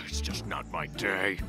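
slow, low and weary; dejected. Acted. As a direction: sigh it out, defeated. Dejected after bad day.

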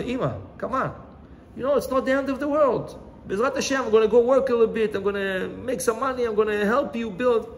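acted-out son, earnestly urging; consoling urging. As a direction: coax a crying mother out of despair. Son consoling crying mother, acted.

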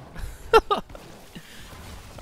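high, airy laugh. Real, not acted. Laughs at the combo.

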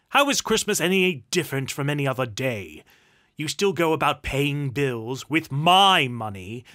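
loud, forceful tirade; angry rant. Acted. Uncle ranting at nephew about Christmas, loud anger. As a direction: rail at the fool, loudly.

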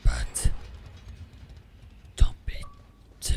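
deep, eerie demon whisper; low, slow whispered demon voice; demonic voice. Acted. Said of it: "deep, eerie voice, that's me".

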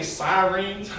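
"sirens" drawn out as "sigh-reens"; regional sirens. Real, not acted. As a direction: slowly echo "sirens" as "sigh-reens", amused. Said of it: "I've been living in Florida".

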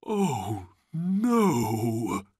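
high, drawn-out cry of grief; tearful wail. A narrator's reading. Old man mourns his brother, wailing. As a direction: wail it as if bursting into tears. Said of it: "and began to cry".

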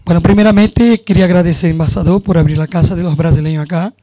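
Spanish with a Brazilian Portuguese accent; a Brazilian speaking Spanish loosely; Portuñol. Real, not acted. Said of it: "vou falar em portunhol".

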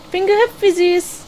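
high delighted squeak at her own jump; cute squeal. Real, not acted. Player squealing at her character's jump, high and delighted. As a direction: gush over it in a high voice.

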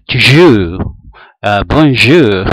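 "Toujours" y "bonjour" en francés exagerado y fuerte; acento francés. Shown as a demonstration. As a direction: imitar el francés con gusto. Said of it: "Vieran el francés". (acento francés juguetón)

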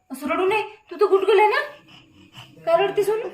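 playful coaxing. Real, not acted. Coaxing a crying baby playfully.

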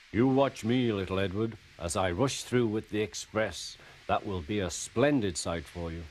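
lightly voiced boastful big engine; a touch of swagger, showing off. Boasting engine teasing little Edward, mild swagger.

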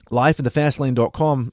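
lightly put-on Australian twang, playful; mock Australian accent. Host talking like an Australian for an Australian website, mock Australian accent. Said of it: "My goal here is to talk like an Australian".

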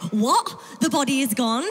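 mildly frantic, rising questions; hammed-up mild freak-out. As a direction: act out a touch of panicked disbelief. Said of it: "Mary at the tomb is freaking out".

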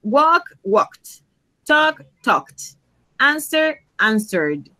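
says "walked", "talked", "answered" with a clear -ed ending; teacher modelling "Walk, walked"; past tense with ed. Shown as a demonstration. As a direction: model each verb, then its past form. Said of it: "la regla general, E D".

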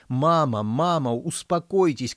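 high, loud plea to stop; pleading shout. A narrator's reading. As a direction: shout to calm her down. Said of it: "кричала принцесса".

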